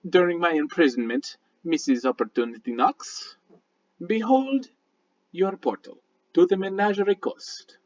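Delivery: measured, formal mystic with a lilting pitch; courteous stranger paying a compliment; lightly voiced Midnight. Midnight praising Mister Kolbavar for his work, lightly acted mystic.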